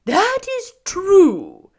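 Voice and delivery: very slow, high, loud straw man; husky scarecrow. A narrator's reading. Scarecrow agreeing with the girl, husky. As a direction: agree in long drawn-out words. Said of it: "in a rather husky voice".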